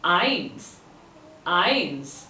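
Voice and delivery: Eins like Heinz minus its H; teacher's model Eins, no H at the start; Heinz without the H. Shown as a demonstration. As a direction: say Eins as "ainz", falling. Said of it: "take out the H from it".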